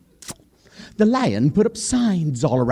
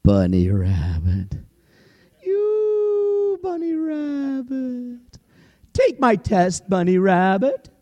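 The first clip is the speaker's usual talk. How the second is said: lion king; 8 semitones higher, slower than usual. Acted. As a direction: growl the test like a hungry king. Lion calls the rabbit.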